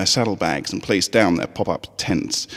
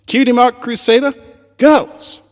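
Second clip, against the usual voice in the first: much higher and louder rallying cry; joyful shout; 8 dB louder than usual. Acted. Three fillies bumping hooves, shouting their team cry. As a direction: yell it together like a team chant.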